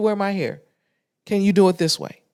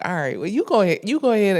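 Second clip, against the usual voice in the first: livelier, obliging go-ahead; more accommodating take; faster than usual. Shown as a demonstration. Client letting therapist step away, obliging rather than dry. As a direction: give permission with some lift in the voice. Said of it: "I wasn't even like".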